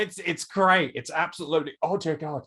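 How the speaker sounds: imitating a faltering claim to be fine; mock enthusiasm. Host mimicking the injured guest, mock unconvincing enthusiasm. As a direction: lightly parody unconvincing cheer. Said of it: "She said that with so much, like, enthusiasm and conviction".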